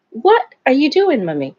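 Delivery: a hint of the dog questioning his mom; playful pet's voice, falling at the end; lightly voiced dog. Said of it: "He's looking at me like".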